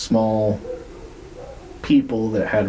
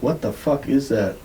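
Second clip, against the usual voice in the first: retold disbelief, pitched higher; growing bewilderment; 4 semitones higher than usual. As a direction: ask it with more urgency, lifting the pitch. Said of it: "now he's, like, really, like".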